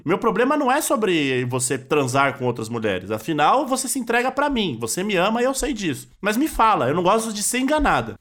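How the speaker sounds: lightly voiced wronged wife, sincere; a hint of the wife telling her husband she hates being lied to; Maíra Cardi. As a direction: speak to the husband hurt but calm. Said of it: "você é muito a Maria Card agora".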